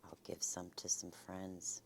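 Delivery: soft whispered aside; whispering. Real, not acted. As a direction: whisper it to yourself. Quiet aside while serving.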